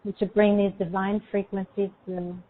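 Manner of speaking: calm, unhurried meditation guide; guided meditation. Acted.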